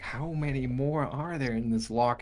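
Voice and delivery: usual speaking voice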